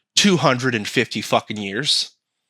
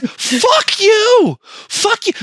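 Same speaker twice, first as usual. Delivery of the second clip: high, loud mock yell; angry retort; 4 dB louder, much slower than usual. Taxpayer yelling back at California, high and loud. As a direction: shout it back at them, high-pitched. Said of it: "It's like".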